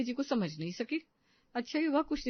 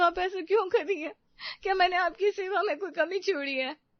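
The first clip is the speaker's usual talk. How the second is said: crying, pitched higher, asking why; tearful pleading; 6 semitones higher than usual. Acted. Tearful daughter-in-law begging mother-in-law not to send her away.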